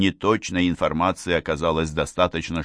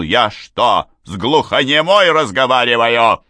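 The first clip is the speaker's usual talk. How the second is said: louder and higher sharp rebuke; shouting; 4 semitones higher, 6 dB louder than usual. A narrator's reading. Father yelling at hesitant mother, loud shout. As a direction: bark it at her. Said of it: "отец прикрикнул".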